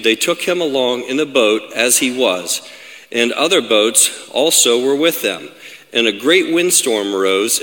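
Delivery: measured, dramatic Bible reading; scripture reading. Acted. Preacher reads the storm story to the congregation, measured scripture reading. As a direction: read the passage with deliberate pauses.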